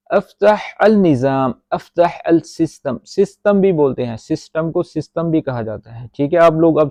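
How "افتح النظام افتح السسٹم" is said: slow model sentence. Shown as a demonstration. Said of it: "model sentence read slowly".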